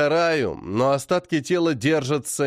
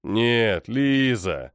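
soft; 3 semitones lower, much slower than usual. A narrator's reading. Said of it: "непривычно мягким голосом".

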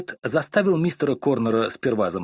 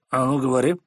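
commanding; 3 dB louder than usual. Acted. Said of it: "скомандовал мистер Корнер".

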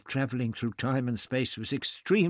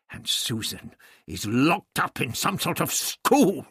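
high-pitched, exasperated reproach; angry scolding; 8 semitones higher, 3 dB louder than usual. A narrator's reading. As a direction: drive the blame home, voice raised in pitch. Doctor berates Barbara for the outcome.

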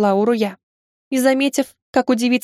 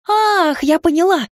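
eager realization; 8 semitones higher, slower than usual. Acted.

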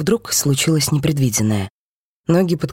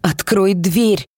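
yelling; 2 semitones higher, slower than usual. Acted. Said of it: "заорала я".

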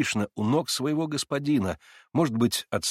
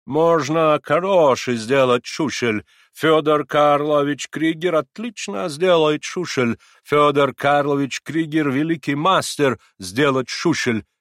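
slow, louder comforting German; kind German accent; 5 semitones higher, 6 dB louder, slower than usual. A narrator's reading. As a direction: soothe him in broken Russian. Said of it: "твердил Миллер".

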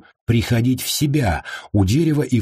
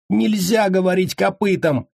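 high squeaky fussy correction; high-pitched captive correcting; 11 semitones higher than usual. A narrator's reading. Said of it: "уточнил копыта и вздохнул".

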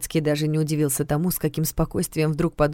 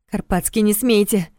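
nervous; 4 semitones higher than usual. Acted. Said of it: "нервно вторила ей".

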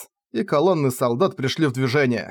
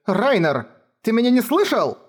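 put-on much higher, insistent girl's demand; angry girl; 9 semitones higher than usual. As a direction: snap at him for not listening. Кефар кричит на Райнера. (Кефар возмущённо требует внимания)

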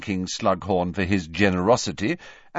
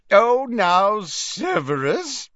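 put-on high, slow, merry old man; jolly, a little drunk; tipsy jovial professor; 12 semitones higher, 5 dB louder, slower than usual. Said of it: "hiccuping again".

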